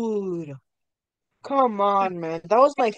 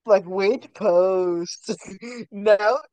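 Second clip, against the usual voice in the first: sports announcer. Pretend. Mock sports announcer hype.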